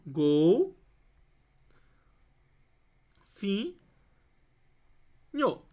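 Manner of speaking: "gol, fim, nho" with long pauses between syllables; slow dictation of "gol... fim... nho". Shown as a demonstration. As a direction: break it into "gol", "fim", "nho", each standing alone. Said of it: "Quais são as sílabas".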